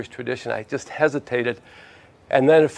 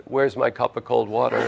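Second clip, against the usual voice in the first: laughing God; 2 semitones lower than usual. Acted. God's voice in the hurricane.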